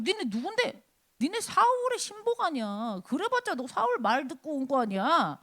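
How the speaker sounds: taunting champion sneering at the enemy; mocking Goliath. Philistine champion taunts Israel's soldiers, mocking. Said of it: "자, 지금 조롱을 하고 있습니다".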